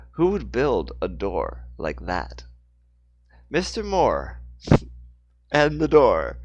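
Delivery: phrase-by-phrase storyteller read, strong openings; story narration. A narrator's reading. Narrator telling of Mister Moore's fall, story narration. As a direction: narrate the action with deliberate pauses.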